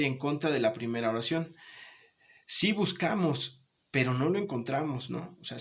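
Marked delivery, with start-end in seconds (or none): 2.5-5.1 emphatic yes on "Si", then plainer "pero no lo encontramos"; adversative intonation. Shown as a demonstration. Teacher swapping in pero for the class, stressed "Si". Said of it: "la entonación cambia".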